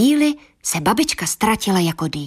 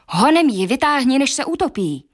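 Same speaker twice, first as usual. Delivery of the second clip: startled father urging wife; alarmed father; 6 semitones higher than usual. Acted. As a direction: hurry her up in alarm. Father alarmed about mouse.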